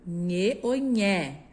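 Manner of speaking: "nhê" closed then "nhé" open, slowly. Shown as a demonstration. Teacher contrasting the two e sounds for pupils. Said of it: "fechado e o som do E aberto".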